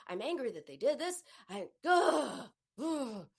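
exasperated groaning about the boss; venting anger. Shown as a demonstration. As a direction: let the frustration out in full. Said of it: "You gotta feel it".

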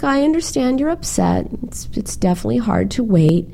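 retold comforting mother. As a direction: voice a mom soothing her upset boy.

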